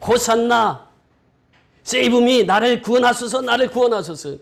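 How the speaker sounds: high, loud cry of hosanna; fervent congregational cry, high and loud; loud praise shout. Shown as a demonstration. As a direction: shout it up to the rafters from the belly. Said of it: "큰 소리로 찬양하라는 거예요".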